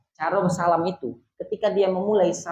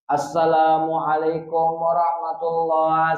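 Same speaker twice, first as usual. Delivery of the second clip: Assalamualaikum warahmatullah drawn out slowly and smoothly; slow perfect salam demo; slower than usual. Shown as a demonstration. Teacher models the perfect prayer salam slowly. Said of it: "boleh dipisah".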